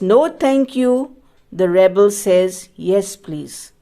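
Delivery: measured, lilting poem reading; poem recitation. Acted. Teacher reading the poem with pupils, measured recitation. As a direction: lift each first line, settle on the rebel's answer.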